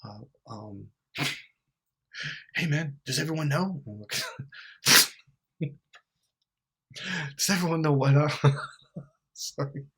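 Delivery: nervous mock voice, breaking into laughs; laughing through an anxious mock voice. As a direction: play it anxious, cracking up. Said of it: "they're like".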